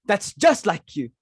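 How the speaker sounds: high, loud rebuke; scolding. Acted. Mother scolds daughter over the guest mix-up, loudly. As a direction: tear into her for the blunder.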